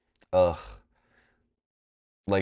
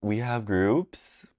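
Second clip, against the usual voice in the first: slow confused; much slower than usual. Retold or imitated. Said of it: "I was like".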